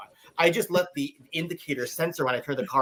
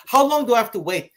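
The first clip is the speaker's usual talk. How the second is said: mock clueless self; 8 semitones higher, 5 dB louder than usual. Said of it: "I'm like".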